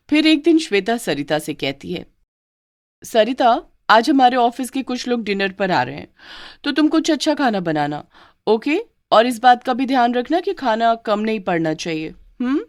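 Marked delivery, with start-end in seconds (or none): 3.0-12.6 bossy bride. Acted.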